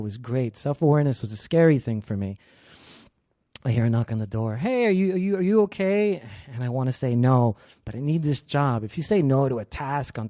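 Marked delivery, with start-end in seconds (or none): 4.6-6.2 higher-pitched imitation of a concerned stranger; concerned caller. Coworker checking through the bathroom door, higher concerned voice.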